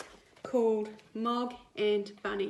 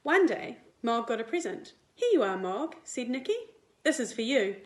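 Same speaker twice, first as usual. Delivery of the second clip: lively picture-book read-aloud; reading to children; 3 dB louder than usual. A narrator's reading. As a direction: read it like storytime for little kids. Teacher reads picture book to class.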